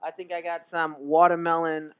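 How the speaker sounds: talking between hookah puffs; smoking a hookah. Real, not acted. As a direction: speak while smoking hookah. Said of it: "smoking on some hookah".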